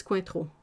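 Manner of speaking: "Cointreau" pronounced as in French; French pronunciation. Real, not acted. Telling a chat viewer which orange liqueur it is, French pronunciation. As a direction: drop a properly French "Cointreau" into English. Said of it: "I love your French pronunciation".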